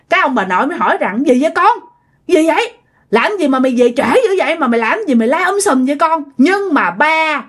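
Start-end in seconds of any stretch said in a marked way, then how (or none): 1.3-6.2 higher-pitched, puzzled scolding; alarmed parental questioning. Acted. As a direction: question your noisy son, a touch alarmed. Grandparents startled awake, questioning their son. (gặng hỏi con, hơi hốt hoảng)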